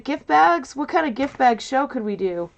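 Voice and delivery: high, puzzled "gift bags?" question; surprised. Retold or imitated. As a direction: act baffled by the idea. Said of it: "I was like".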